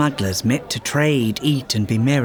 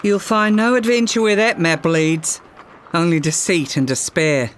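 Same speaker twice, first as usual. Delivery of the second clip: wary voice; 3 semitones higher than usual. Acted. Captain warns the girl about the map, wary call. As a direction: warn her off from across the room. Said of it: "a wary voice called after her".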